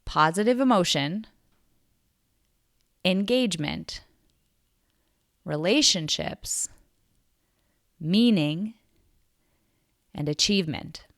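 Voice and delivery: slow list with long pauses between items; really slow. Shown as a demonstration. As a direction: say each item slowly, leaving space to think. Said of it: "say those again really slowly".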